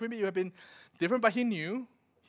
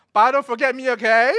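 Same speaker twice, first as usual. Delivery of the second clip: loud, half-joking plea to dad; loud mock plea; 4 semitones higher, 12 dB louder than usual. Son calling to his dad as they leave, loud mock plea. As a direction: call out don't forget me.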